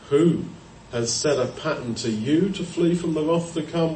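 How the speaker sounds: WHO set apart by a pause; "WHO... has set a pattern", pointed question; stress on WHO. Acted. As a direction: punch WHO alone, then carry on. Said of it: "put the emphasis in that sentence on the word who".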